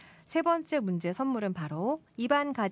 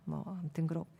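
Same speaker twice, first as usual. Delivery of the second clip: normal talking voice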